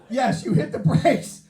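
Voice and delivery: high, loud, drawn-out exclamation; emphatic shout. Real, not acted. Comic giving the crowd the obvious answer, shouting emphatically.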